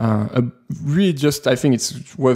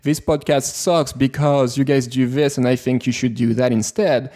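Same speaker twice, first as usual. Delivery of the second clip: lightly acted reasoned complaint; constructive criticism, quoted. Imagined listener explaining what to fix, mildly earnest. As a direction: run the complaint on into helpful advice. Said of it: "But if you said".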